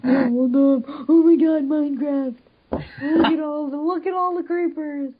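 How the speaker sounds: acting like a boy. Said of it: "Girl, act like a boy".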